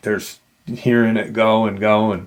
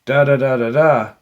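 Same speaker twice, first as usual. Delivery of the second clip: higher-pitched, mock-amused pilot; retold scoffing laugh; 6 semitones higher than usual. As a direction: tease them with a slight laugh in it. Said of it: "the helicopter pilot kinda laughs".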